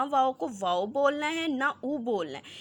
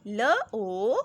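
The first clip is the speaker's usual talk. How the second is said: put-on slow, drawn-out letter by letter reading for children; teacher spelling syllables slowly and loudly; slow spelling drill; 3 dB louder, much slower than usual. Shown as a demonstration. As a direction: sound out each letter slowly, then blend. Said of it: "ग और ओ मिलके क्या बने?".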